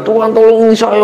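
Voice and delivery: high mock prayer cry; imitated shouted prayer. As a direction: retell a desperate yelled prayer. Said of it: "dalam kesulitan dia teriak doanya".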